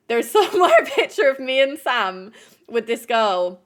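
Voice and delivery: real laugh breaking into the words; laughing through it. Real, not acted. To viewers, repeating the photo story with a real laugh. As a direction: laugh as you repeat the line.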